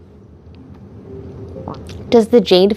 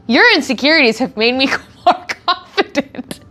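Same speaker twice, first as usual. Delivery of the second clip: laughing quote; 3 semitones higher than usual. Retold or imitated. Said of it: "the way that he boiled that down was".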